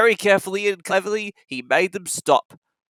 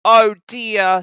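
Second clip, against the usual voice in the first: a sad, higher "oh dear"; sad sigh; 4 semitones higher, 6 dB louder than usual. Acted. James alone in the shed, sad and higher. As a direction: sigh it out, sorry for himself. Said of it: "he thought sadly".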